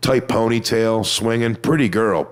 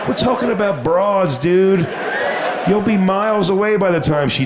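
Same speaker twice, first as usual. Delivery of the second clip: higher, bro-ish mock emphasis on broads; macho bro voice; 9 semitones higher than usual. Comic mocking the dudes in the crowd, bro voice. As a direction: play the dumb macho dude.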